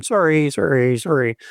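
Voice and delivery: repeated apologetic "Sorry, sorry, sorry" with a Canadian "sorry". Shown as a demonstration. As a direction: rattle off "Sorry, sorry, sorry" like a polite Canadian. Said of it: "Just say "sorry" all the time".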